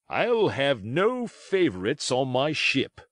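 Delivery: loud captain. Acted. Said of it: "quite loudly".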